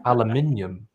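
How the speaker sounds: Aluminium said the British way, al-yoo-MIN-ee-um. Shown as a demonstration. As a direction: say Aluminium with five syllables, stress on MIN. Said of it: "should we practice some words now".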